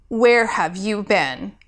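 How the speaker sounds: slow, mild stern demand; a hint of an angry mentor; slow stern question. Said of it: "Gabriel demanded".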